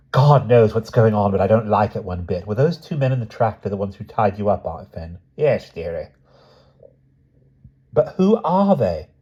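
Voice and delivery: a niece scared for her aunt; anxious young woman. Acted. Lucy frightened and puzzled.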